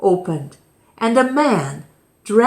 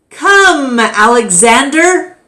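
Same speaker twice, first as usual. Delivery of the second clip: summoning call; 7 semitones higher, 7 dB louder than usual. Acted. Keeper summons the boy.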